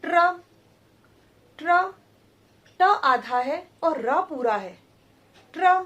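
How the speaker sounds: ट्र clipped, half ट into full र; sounding out ट्र. Shown as a demonstration. Teacher drilling ट्र so pupils hear it. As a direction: repeat the cluster ट्र sharply. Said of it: "उच्चारण कीजिए".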